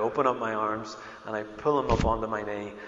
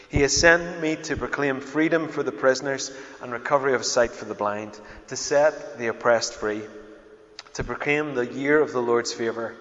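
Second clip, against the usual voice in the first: louder, measured public Bible reading; scripture reading; 2 semitones higher, 6 dB louder than usual. Acted. Preacher reading scripture to the congregation, loud and measured. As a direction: read the verses out firmly to a congregation.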